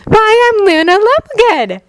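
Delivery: put-on high, airy, breathy girl. A narrator's reading. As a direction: breathe it out dreamily. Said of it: "Her breathy voice drifted back".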